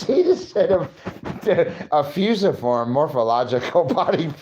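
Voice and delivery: high, laughing nerd imitation; mock nerd voice. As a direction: make fun of a know-it-all. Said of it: "had to make fun of myself".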